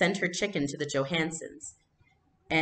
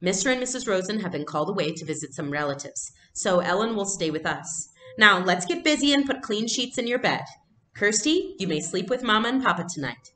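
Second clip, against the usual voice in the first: brisk mother; 3 semitones higher, 3 dB louder than usual. Acted. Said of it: "Mama said briskly".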